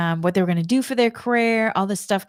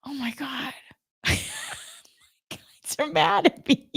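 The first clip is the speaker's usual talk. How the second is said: dismayed; 7 semitones higher, 5 dB quieter than usual. Retold or imitated. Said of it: "I left there going".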